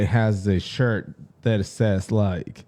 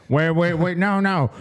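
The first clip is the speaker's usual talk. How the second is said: higher-pitched mock protest; alarmed backpedalling; 5 semitones higher than usual. Man refusing to house the three strangers, mock alarmed backpedalling. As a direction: hurriedly take it back, imitating a flustered man. Acted backpedal in retold video.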